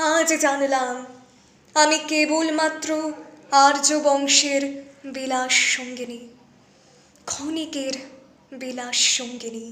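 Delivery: sinking low and quiet, broken by long pauses; bitter resignation. Acted. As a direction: let the wounded pride subside into hushed bitterness. Humiliated queen's bitter realisation. (তিক্ত হতাশায় নিচু, থেমে থেমে বলা)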